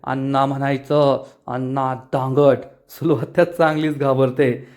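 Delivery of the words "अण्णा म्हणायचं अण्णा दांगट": low, slow, menacing correction; angry correction. Acted. Elder correcting the aunt for calling him by nickname, low and slow. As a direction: lean in low and slow, daring her to disrespect you. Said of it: "धोंडियांना चिडून म्हणतो".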